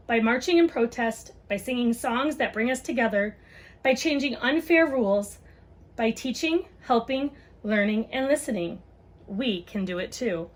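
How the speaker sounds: gentle picture-book read-aloud; reading to children. Acted. Mom reads a book on race to viewers, storytime voice.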